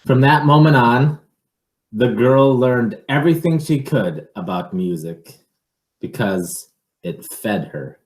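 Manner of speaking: put-on lively read-aloud for children; picture book reading. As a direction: read it to a child, with a storyteller's lilt.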